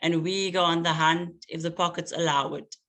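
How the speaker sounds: measured, rhythmic spoken-word delivery; poem reading. Acted. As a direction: let each image land with long pauses. Poet reads her poem aloud.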